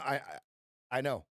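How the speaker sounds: ordinary talk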